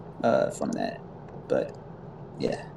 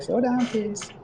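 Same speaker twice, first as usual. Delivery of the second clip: high-pitched mom voice, trailing softer; higher motherly voice, easing off at the end; mom cautioning kids; 9 semitones higher, 3 dB quieter than usual. Acted. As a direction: play a mom calling out a warning, voice pitched up. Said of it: "mom would be like".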